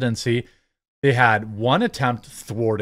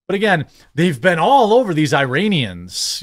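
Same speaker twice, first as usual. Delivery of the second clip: mock-emphatic, higher-pitched sarcasm; sarcastic; 3 semitones higher, 3 dB louder than usual. Real, not acted. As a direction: lay the sarcasm on, stretching the emphasis. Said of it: "I am being sarcastic".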